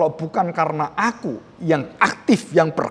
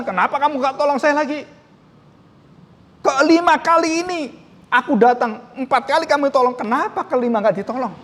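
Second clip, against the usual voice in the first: higher, whiny mock complaint of an ungrateful man; demanding whine; 5 semitones higher than usual. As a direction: mimic a beggar demanding his due. Ungrateful man demands more help.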